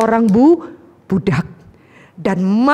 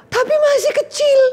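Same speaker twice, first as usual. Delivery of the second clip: father's afterthought. Acted. Father recalls youngest son.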